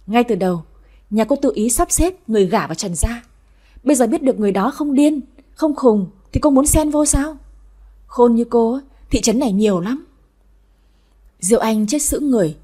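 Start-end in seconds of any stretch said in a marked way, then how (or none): 1.5-10.0 raised, sarcastic elder; scornful grandmother. Acted. Grandmother confronting the unwanted visitor, scornful. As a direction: expose her scheme with mild scorn.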